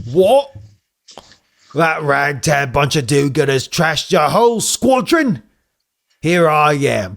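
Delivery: a hint of an indignant villain; lightly voiced ranting Crockbot. Crockbot scolding his beaten dingo, lightly indignant. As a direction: fume at the failure.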